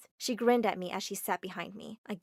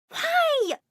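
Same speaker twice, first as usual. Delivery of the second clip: much higher, loud tearful wail; crying; 6 dB louder than usual. Acted. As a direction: sob the question out. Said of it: "She burst into tears and said".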